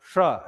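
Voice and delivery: low demo of श, tongue up; श as retroflex "sh". Shown as a demonstration. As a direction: lift the tongue and sound श. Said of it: "ऐसे".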